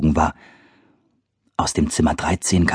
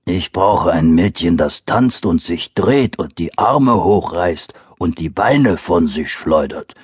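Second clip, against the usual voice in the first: growling bear; 3 semitones lower, slower than usual. Acted. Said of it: "brummte der Bär".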